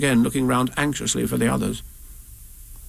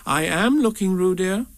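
severely; 6 semitones higher than usual. Acted. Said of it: "said Kanga rather severely".

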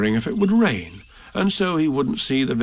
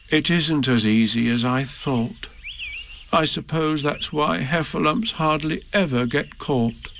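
a touch of sadness, slow; mild sad Pooh; 3 semitones higher than usual. Acted. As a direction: sigh it out gently, a bit glum. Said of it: "added sadly".

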